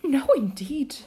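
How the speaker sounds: put-on light high girl voice; Alice. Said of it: "said Alice".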